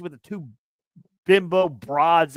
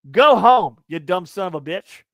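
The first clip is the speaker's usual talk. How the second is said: loud, raised shout of go home; angry yell; 8 dB louder than usual. Retold or imitated. Podcaster ranting at a rude fan, furious shout. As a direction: blast it at the fan. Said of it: "let me go on a little rant here".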